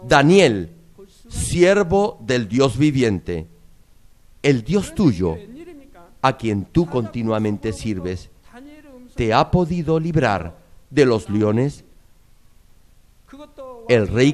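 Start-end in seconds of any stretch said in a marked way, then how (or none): none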